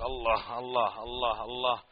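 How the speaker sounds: lightly intoned repetition of the single name; imitating Sufi dhikr. Mimicking Sufis who chant God's name alone, lightly intoned. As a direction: mimic a dervish repeating the name of God, mildly. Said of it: "بلفظ الجلالة المفرد".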